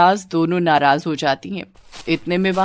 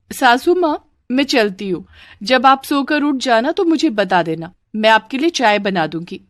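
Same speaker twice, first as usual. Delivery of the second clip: lightly voiced bahu, pitched up; cheeky daughter-in-law; 5 semitones higher, 3 dB louder than usual. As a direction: take leave innocently of the saas. (हल्के से निभाई भोली बहू)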